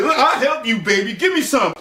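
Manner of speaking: creepy man hitting on her; sleazy creep. Retold or imitated.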